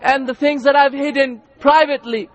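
fervent plea, each address pushed up; acted pilgrim's impassioned prayer; imploring supplication. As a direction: beg forgiveness in an urgent, rhythmic prayer. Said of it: "standing and imploring to his Lord".

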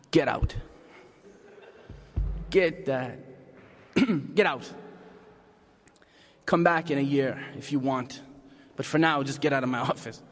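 a hint of a stern coach; gruff coach. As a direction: send the boy away like a tired coach. Coach throwing kid out.

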